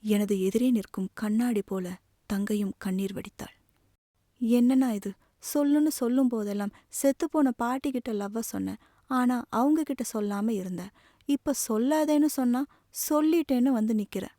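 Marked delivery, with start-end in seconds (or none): 4.4-14.3 mildly exasperated, higher-pitched reproach; exasperated scolding. Acted. Sister reproaching her brother over his confession, exasperated scolding. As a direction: take the brother to task in a raised pitch.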